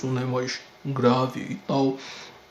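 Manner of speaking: deep, slow caped-hero voice. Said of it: "a voz do Batman lá que a gente tá escutando".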